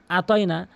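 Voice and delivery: আতয়না with a plain open আ; dropped ayn. Shown as a demonstration. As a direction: say আতয়না lightly, no throat squeeze on আ. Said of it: "আইনটি বাদ পড়ে গেল". (আতয়না-র আ আইন ছাড়া)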